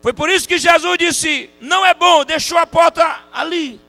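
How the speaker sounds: high, shouted revivalist delivery; loud, soaring pulpit proclamation; full-force preaching. Acted. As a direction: drive each phrase home at the top of your voice.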